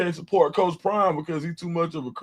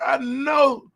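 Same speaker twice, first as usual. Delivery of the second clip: mock meme shout; 8 semitones higher than usual.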